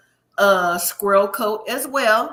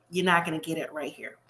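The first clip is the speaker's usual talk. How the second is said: quiet whispered jab, softer; whispered aside; 5 semitones lower, 6 dB quieter, faster than usual. Real, not acted. Host telling viewers Luke won't find maturity, whispered aside. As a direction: drop to a whisper for the punchline. Aside verdict on Luke's wish.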